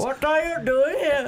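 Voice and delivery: high, slow, loud mock tough-guy line; slow hammed-up confrontation; mock edgy guy. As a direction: drawl it like a brooding emo hero. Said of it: "And he goes".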